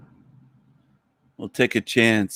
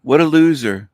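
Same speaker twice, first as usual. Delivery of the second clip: higher-pitched contemptuous jab; real scorn; 4 semitones higher, 4 dB louder than usual. Real, not acted. Host putting down a prank caller, scornfully. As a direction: throw the insult with open contempt.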